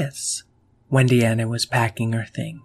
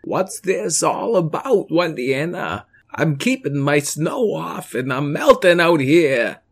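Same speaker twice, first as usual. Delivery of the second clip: a gently downcast alien; the speaker's alien voice; 2 semitones higher than usual. Acted.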